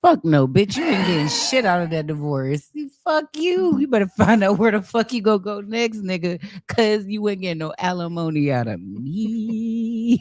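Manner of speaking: sassy mock rant, chopping into each line; mock angry rant. Answering the divorce profile as the woman, mock angry rant. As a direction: tell him off like the fed-up woman he's courting.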